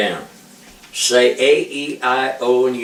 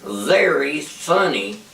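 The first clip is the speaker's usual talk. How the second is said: slow demo; 2 semitones higher, slower than usual. Shown as a demonstration. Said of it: "And if I said".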